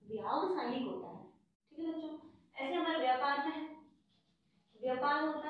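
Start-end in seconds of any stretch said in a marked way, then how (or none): 0.1-1.2 व्यावसायिक with the long आ stressed, falling; correct form stressed. Shown as a demonstration. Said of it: "व्यवसायिक नहीं होता".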